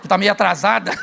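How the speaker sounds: quick, laughing tease to the wife; playful tease to wife. Pretend. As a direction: poke fun at her gently through laughter. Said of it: "vou conversar com minha mulher e falar".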